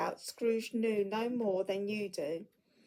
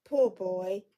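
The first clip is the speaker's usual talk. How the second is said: pitying; 5 dB louder than usual. Acted. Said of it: "he said in pity for his former self".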